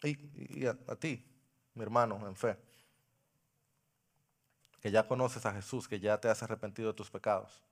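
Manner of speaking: soft, low pastoral appeal; quiet, tender sermon close; intimate altar call. Acted. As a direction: speak gently to each listener.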